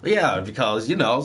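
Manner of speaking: mock British interviewee; casual attempt at a British accent; imitated British accent. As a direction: put on a rough British accent. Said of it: "you see 'em in interviews".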